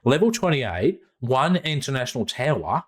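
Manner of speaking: a hint of an Australian accent on the address; lightly Aussie, reading an address out. Podcaster reading the sponsor's address, in light Australian accent. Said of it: "I'm gonna do this in Australian accent".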